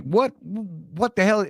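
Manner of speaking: high, drawn-out bad Boston accent; attempted Boston accent. Imitating Ranger Shelley at the stress card, rough Boston accent. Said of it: "with his Boston accent".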